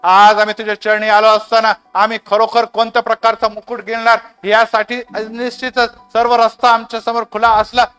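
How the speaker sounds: earnest, flowing prayer to God; fervent prayer. Real, not acted. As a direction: lead the congregation in heartfelt closing prayer. Leads the closing prayer.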